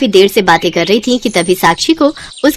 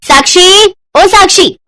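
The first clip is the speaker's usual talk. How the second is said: calling out; 9 semitones higher, 5 dB louder, slower than usual. Acted. Babita calling out across house.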